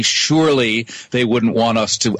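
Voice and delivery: dry sarcastic tone, mock disbelief. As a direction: say it with obvious sarcasm. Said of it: "I'm adding in the sarcasm here".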